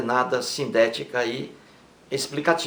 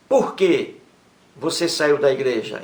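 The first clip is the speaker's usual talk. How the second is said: "Por que" lifted and set off by a pause; stress on Por que. Shown as a demonstration. Teacher again isolates "Por que" for the class. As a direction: hit "Por que" then carry on plainly. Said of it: "aparece logo no início de uma pergunta".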